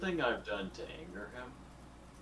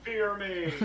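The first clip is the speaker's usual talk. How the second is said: hammed-up villain boast, higher and louder; mock menacing; 10 semitones higher, 9 dB louder, slower than usual. Player jokingly declaring his character's name, hammed-up boast. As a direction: boom it out like a mock tyrant.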